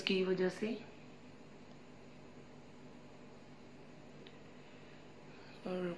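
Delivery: speaking while wiping face; muffled through towel. Real, not acted. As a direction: cloth pressed over mouth. Seen 0: Towel covers mouth and nose from 1.2s, while last word spoken.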